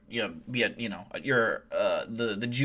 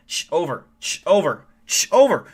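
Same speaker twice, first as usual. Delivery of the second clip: repeated radio calls building higher and louder; urgent radio call; 3 semitones higher, 7 dB louder than usual. Acted. Helicopter pilot radioing a silent teammate, urgent radio call. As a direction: static hiss, then each 'over' more desperate. Radioing, and you're not answering.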